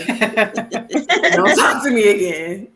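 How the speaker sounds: very slow, drawn out through laughter; laughing brush-off. Real, not acted. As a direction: laugh while drawing out the dismissal. Laughing dismissal of the man.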